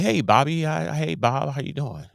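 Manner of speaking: high, cheery hello to a star; friendly greeting. Retold or imitated. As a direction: call it out brightly. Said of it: "I said".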